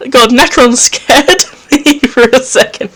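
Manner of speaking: high, loud nervous laugh through the words; laughing after a fright. Real, not acted. Player laughing off a scare from Necron, nervous laugh. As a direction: shaken giggle after a jump scare.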